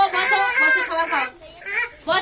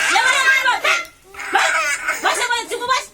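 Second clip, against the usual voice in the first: half-laughing call to sit down, pitched up; loud laughing command; 5 semitones higher, 4 dB louder than usual. Real, not acted. Teacher calming a crying child.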